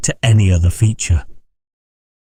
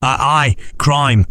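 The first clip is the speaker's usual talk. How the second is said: grim confirmation; 5 semitones higher, slower than usual. Acted. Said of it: "repeated Titus".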